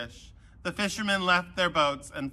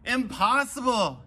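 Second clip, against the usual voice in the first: a higher, lightly raised storyteller's yell; mock yell; 5 semitones higher, 3 dB louder than usual. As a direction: exclaim it as an astonished fisherman. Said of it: "yelled James".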